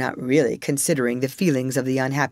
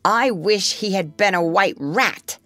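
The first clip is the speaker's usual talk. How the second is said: put-on boy's voice; 6 semitones higher than usual. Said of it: "said Nibs".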